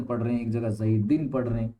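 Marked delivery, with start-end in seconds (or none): 0.7-1.3 زیدن said zaidin, ending in -in; case ending demo. Shown as a demonstration. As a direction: land clearly on the -in ending. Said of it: "ہم تلفظ کر رہے ہیں اس پہ".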